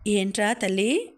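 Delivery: understated fatherly tenderness; mildly affectionate. Acted. Father asking his silent daughter, mildly affectionate. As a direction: ask her with a touch of affection. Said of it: "ఆప్యాయంగా అడిగాడు".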